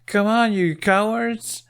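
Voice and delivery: high, slow, wild taunting shout; hysterical taunt. A narrator's reading. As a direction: yell it half-crazed at the cowards. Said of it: "She sounded vaguely hysterical".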